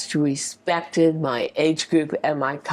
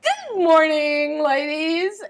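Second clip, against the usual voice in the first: bright TV host voice; 9 semitones higher, slower than usual. Retold or imitated. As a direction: flip into a cheerful on-air host. Host switches on for camera.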